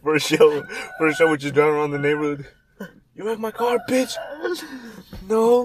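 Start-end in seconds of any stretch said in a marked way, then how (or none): 3.2-5.6 hammed-up confrontation, yelled at full force; mock yell. Pretend confrontation for a show.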